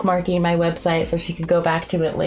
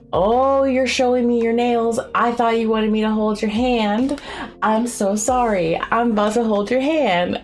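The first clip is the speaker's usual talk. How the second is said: flustered apology; 4 semitones higher than usual. Retold or imitated. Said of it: "immediately was like".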